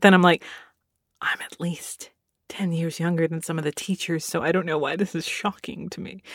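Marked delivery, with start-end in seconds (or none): 1.2-6.2 hushed whisper, half to yourself; whispered awe. Retold or imitated. Whispering in awe on seeing the teachers' lounge again. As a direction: breathe it out like a secret.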